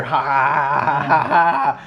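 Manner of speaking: slow, drawn-out imitation laugh; imitated laugh. Imitating what was heard after the blackout, mock laughing. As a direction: spell out the laugh, long and steady. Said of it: "and you just hear".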